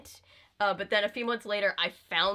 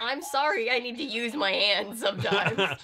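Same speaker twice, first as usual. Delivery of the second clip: higher, drawn-out exasperated apology; mock protest; 3 semitones higher, 3 dB louder than usual. Actor to makeup artist redoing hands, mock-exasperated apology. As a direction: plead slowly in mock defence of yourself.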